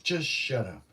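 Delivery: insistent inner voice hushing itself; mildly exasperated self-reproach in short bursts; scolding oneself. Retold or imitated. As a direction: talk yourself firmly into silence. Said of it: "I was saying to myself".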